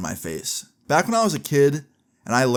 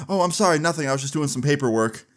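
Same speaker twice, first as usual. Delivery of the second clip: higher-pitched mock apology, easing back down; flustered excuse; 4 semitones higher than usual. Babysitter caught by a kid, acted flustered excuse. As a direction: imitate a caught-out babysitter covering up.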